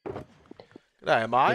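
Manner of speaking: playful Australian echo; Australian accent. Pretend. Friend echoing the greeting, Australian accent. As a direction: copy an Aussie greeting. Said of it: "trying to emulate the Australian accent".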